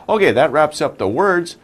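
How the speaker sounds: whispered aside to the class. Real, not acted. Teacher whispers to students that the words are done. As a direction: drop into a whisper to wrap up. Teacher closing word section.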